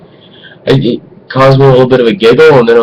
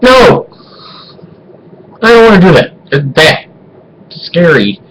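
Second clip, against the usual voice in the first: mock frightened refusal; 7 semitones higher than usual. Son balking at helping his dad, mock horrified. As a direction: act out a horrified, balking kid. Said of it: "And I'm like".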